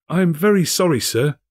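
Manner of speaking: high, apologetic clerk; sorry employee pleading; timid clerk Bob. A narrator's reading. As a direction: Bob apologising to his master. Bob voiced in the story.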